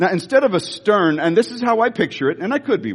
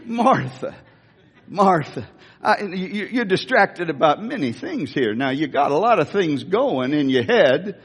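folksy, lightly voiced Southern sheriff; Andy Griffith; 2 semitones lower than usual. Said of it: "I almost hear Andy Griffith's voice in this".

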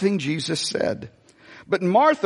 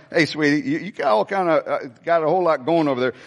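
mock sweet sarcastic; 4 semitones lower, faster than usual. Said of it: "it's just pathetic".

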